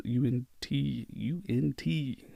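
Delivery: slow, soft fading echo. Acted. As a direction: let it trail off like an echo. Echoing fading repetition.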